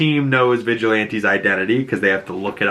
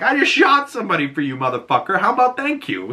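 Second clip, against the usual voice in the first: high, fast exasperated voice; annoyed Adebayo; 9 semitones higher, faster than usual. Retold or imitated. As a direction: rattle it off fed up. Adebayo snaps back.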